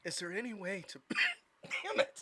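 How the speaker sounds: choking on food mid-line; coughing through the words. Real, not acted. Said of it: "I'm choking on my shit".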